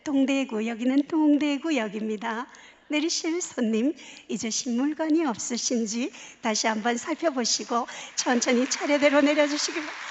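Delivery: lightly voiced station announcer; old station announcement. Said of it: "어떻게 했냐면 이렇게 했어요".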